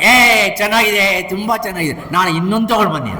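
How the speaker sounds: high-pitched, mock-enthusiastic approval; acted delighted praise. Acting out someone praising what was brought, high and delighted. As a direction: play up the delight, voice lifted high.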